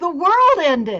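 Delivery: mock, very loud words bursting with laughter. Retelling a dying man's words about a dream: imitating someone laughing.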